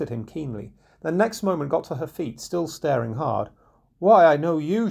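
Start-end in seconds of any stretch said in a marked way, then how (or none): 4.0-4.9 loud, high excited recognition; burst out. Acted. Mother suddenly recognising Robin, loud and excited. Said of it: "she burst out at last".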